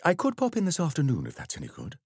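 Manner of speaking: a hint of a flustered vicar; lightly voiced halting vicar excuse; hesitant vicar. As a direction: stumble over the words, unsure. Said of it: "The vicar hesitated".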